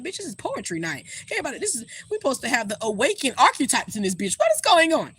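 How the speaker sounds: mock outrage at a churchy poetry night; exasperated sass. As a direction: call it out like you can't believe this crowd. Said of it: "I was like".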